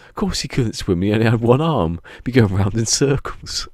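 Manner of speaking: hammed-up exasperated punchline; joke punchline, mock exasperated. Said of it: "And he goes".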